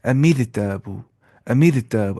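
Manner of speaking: "अमीर ताबू" with a fine R after "mi"; Tajweed light ra in "अमीर ताबू"; light thin R. Shown as a demonstration. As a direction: recite "अमीर ताबू" as amir-taaboo, R light. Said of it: "हल्की आवाज़ से पढ़ना है".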